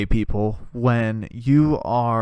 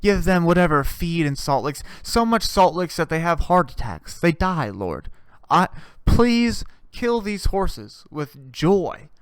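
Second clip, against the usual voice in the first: hammed-up prayer that fades to a hush; mock holy prayer dying away to a hush. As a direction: pray it over-the-top, then fade to nearly nothing. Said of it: "I say".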